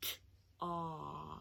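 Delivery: slow, soft, drawn-out 'T-op' said sound by sound. Teaching the sounds in a word, saying it slowly. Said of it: "Let's say it slowly".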